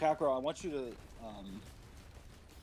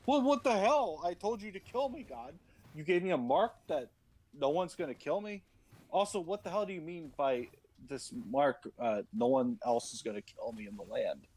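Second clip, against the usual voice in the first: mock angry Cain; 4 semitones higher than usual. Cain ranting at God.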